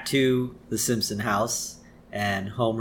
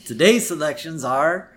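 Troy McClure; 4 semitones higher than usual. Retold or imitated. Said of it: "It says".

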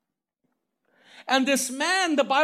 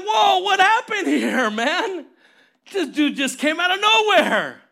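shocked; 4 dB louder than usual. Acted. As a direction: blurt it out like a startled man, hammed-up. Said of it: "I'm sure Jacob was shocked".

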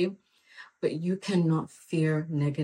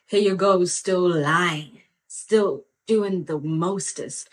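sassy loud scold; 5 dB louder, slower than usual. Real, not acted.

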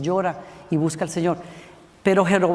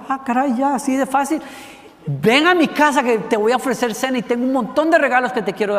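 higher, eager imitation of a king; mock amazed relief; 5 semitones higher than usual. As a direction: act pleasantly astonished, then invite eagerly. Acts out the suddenly healed king. (asombro fingido y entusiasta, más agudo)

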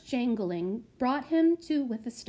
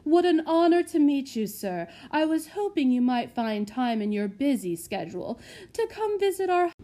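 fawning matron; 4 semitones higher, 5 dB louder than usual. Acted. Fawning matron greets lord.

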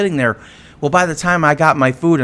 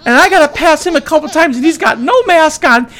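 mimicking crying woman; 9 semitones higher, 3 dB louder than usual. Voicing the crying woman again.

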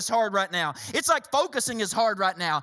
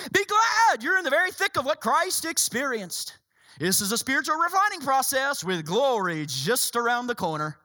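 flippant. Acted. Preacher finishing Peter's letter in his tone, flippant. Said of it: "do you hear the tone of Peter".

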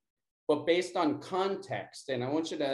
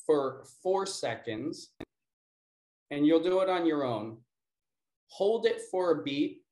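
calm, measured breathing instructions; guided breathing. Acted. Teacher guiding the class through breath work, calm and measured. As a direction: count them gently through each breath.

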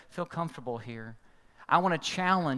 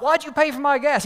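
fast, much louder, higher yell; angry shout; 10 semitones higher, 10 dB louder than usual. Retold or imitated. Driver first confronting Dan, shouting angrily. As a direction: fire the question at him. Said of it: "the guy was mad".

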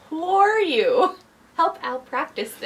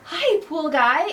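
starstruck fan; 3 semitones higher, slower than usual. Pretend. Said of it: "I'll be the starstruck fan".

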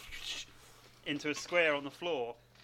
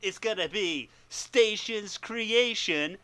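surfer dude voice; 4 semitones higher, slower than usual. Pretend. Bill and Ted announce themselves.

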